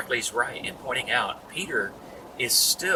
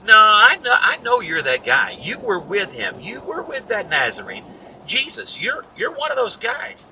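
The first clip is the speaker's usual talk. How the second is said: put-on accusing servant girl; 9 semitones higher, 7 dB louder than usual.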